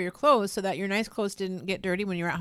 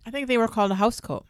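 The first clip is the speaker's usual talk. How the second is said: talking while chewing; words round a mouthful of food; mouth full; 2 semitones higher than usual. Real, not acted. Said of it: "'Cause I'm chewing".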